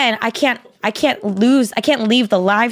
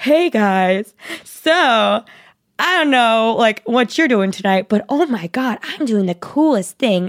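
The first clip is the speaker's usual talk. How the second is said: slow, drawn-out put-on boy voice. Retelling a guy's livestream to a few viewers, imitating a guy's voice. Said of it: "My voice got tired of doing the boy voice".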